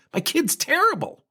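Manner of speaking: high, slow, far-off mock parent admitting defeat. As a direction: squeak it out like a parent conceding in mock disbelief. Mock parent agreeing sarcastically.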